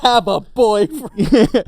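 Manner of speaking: high, loud, slow mocking whine; mocking girl voice. Friend mocking the biker girl, loud high whine. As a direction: stretch it out in a snooty high whine. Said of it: "She's like".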